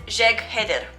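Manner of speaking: "Jeg Heder" with a hard J and G; spell-reading "Jeg Heder" as written; wrong pronunciation. Shown as a demonstration. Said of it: "I used to pronounce it".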